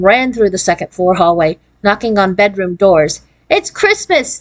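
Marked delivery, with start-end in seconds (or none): 3.5-4.4 children's excited cry, lightly voiced; excited mock shout. A narrator's reading. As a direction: call it out high with glee. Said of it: "they shouted".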